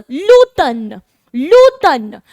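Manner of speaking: लूतन with the article joined; French l'automne. Shown as a demonstration. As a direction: say लूतन smoothly, French style. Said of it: "French में हम लोग बोलते हैं ऊतन".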